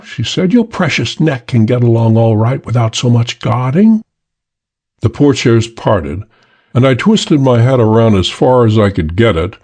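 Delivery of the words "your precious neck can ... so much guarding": light, mocking woman's voice; airy taunt. The girl taunting the Chinese man, airy and mocking. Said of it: "she spoke airily".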